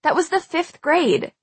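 high, incredulous protest; shouting. A narrator's reading. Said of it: "I shouted".

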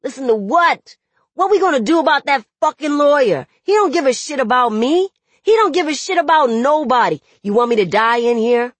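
loud, high, fast angry tirade; furious outburst climbing to a frantic pitch; yelling in anguish. A narrator's reading. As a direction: build to a desperate high-pitched yell. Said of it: "I'm sorry I yelled".

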